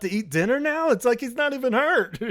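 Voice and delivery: high, laughing indignation; laughing mock outrage. Fan mocking Simon's dinner, laughing high.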